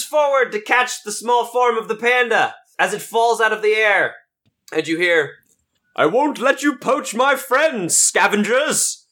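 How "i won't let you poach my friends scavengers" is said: unicorn voice. Acted. Unicorn shouts at poachers.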